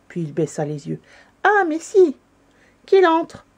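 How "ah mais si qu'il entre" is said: high, loud eager exclamation; raised, insistent welcome; crying out. A narrator's reading. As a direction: call out heartily to let him in. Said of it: "s'écria le Père Noël en chef".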